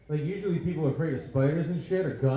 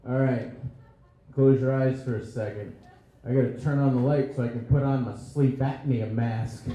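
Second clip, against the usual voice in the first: lower, hushed romantic murmur, a hint of bedroom voice; mock romantic line; 5 semitones lower than usual. To a hookup after sex, a lightly lowered mock-romantic voice. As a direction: play it like a lightly voiced seductive whisper-talk. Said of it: "one of the most romantic things".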